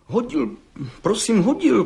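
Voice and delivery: put-on high, halting stammer of a scared young man. A narrator's reading. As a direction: stutter it out nervously. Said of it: "koktal mladý cihlář". (koktavě, vysokým hlasem)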